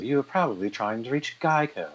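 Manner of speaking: lightly effete British voice, pitched a little up; polite British message-taker, a touch effete; effete British accent. Acted. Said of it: "very effete sort of British sound".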